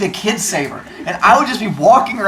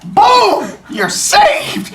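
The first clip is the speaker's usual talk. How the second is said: triumphant calling out; 13 semitones higher, much slower than usual. Pretend. Teacher as rescuer walking around saving kids, triumphant shout. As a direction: boom it out with glee.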